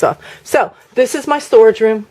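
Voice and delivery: ordinary talk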